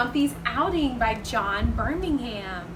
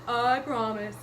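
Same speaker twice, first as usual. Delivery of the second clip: promising dog. Acted. Dog answers Mister Gumpy, doggy promise. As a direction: promise as a good puppy. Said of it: "Dog said".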